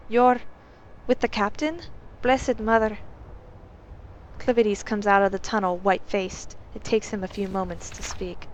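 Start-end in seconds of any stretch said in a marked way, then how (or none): 0.1-3.0 alarmed. Acted. Maid alarmed at the guard.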